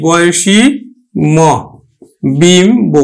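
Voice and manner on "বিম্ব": বিম্ব with ম and ব both sounded; pronounced example. Shown as a demonstration. Teacher modelling বিম্ব for pupils. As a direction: say বিম্ব slowly and fully. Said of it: "এই বফলাটার উচ্চারণ কিন্তু করছি".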